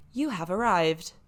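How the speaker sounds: lightly voiced sat nav, slow and measured; a hint of automated guide voice. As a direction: announce it like a navigation device. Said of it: "eventually the sat nav ... is like".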